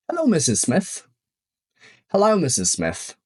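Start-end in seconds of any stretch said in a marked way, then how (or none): 0.1-1.1 example read. Shown as a demonstration. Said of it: "Spójrzmy na przykłady".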